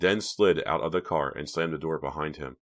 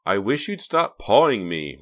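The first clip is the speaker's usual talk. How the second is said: higher, louder irritated snap; snapped; 4 semitones higher, 7 dB louder than usual. A narrator's reading. Reva tells Hank to stop pawing her, snapping. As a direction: snap it as a sharp rebuke. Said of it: "Reva snapped".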